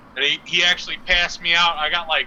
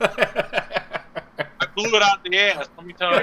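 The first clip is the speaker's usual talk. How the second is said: laughing; 4 semitones higher, slower than usual. Real, not acted. Laughing while telling gross story.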